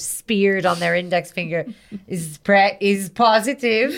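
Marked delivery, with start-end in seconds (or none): 2.1-4.0 put-on German accent. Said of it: "I'm doing a German".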